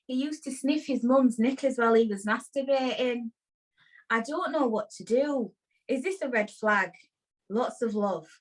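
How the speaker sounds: put-on accent from up north; northern English accent. Host reads a listener's dilemma to Audrey, playful northern accent. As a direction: read it as a letter writer from up north. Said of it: "they're from up north".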